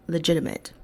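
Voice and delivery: ordinary talk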